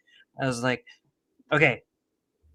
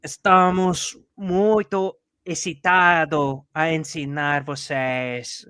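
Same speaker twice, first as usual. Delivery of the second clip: earnest slow Portuguese; 2 semitones higher, 4 dB louder, slower than usual. Retold or imitated. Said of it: "I was like".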